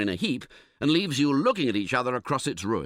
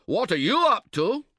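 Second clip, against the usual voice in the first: high, loud snappish comeback; retorting; 9 semitones higher, 4 dB louder than usual. Acted. Tentmate retorts to the shouting camper, high and loud. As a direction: throw the question straight back at him. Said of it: "he retorts".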